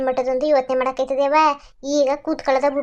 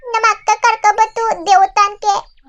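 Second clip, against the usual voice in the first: put-on high, childlike voice, a bit louder; lost little girl; 7 semitones higher, 4 dB louder than usual. Lost girl answering the man who found her, high childlike voice.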